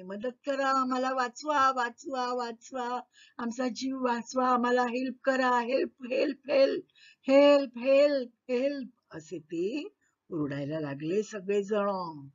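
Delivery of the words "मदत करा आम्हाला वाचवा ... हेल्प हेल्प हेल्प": higher, pleading calls to be saved; crying for help. Acted. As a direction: beg to be rescued. (घाबरून वाचवा म्हणून ओरडणे)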